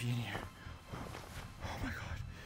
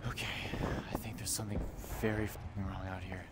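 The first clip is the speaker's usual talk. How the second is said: tense, soft whisper; 8 semitones lower, 15 dB quieter than usual. Real, not acted. Sneaking outside toward danger, a tense whisper. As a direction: whisper so nothing hears you.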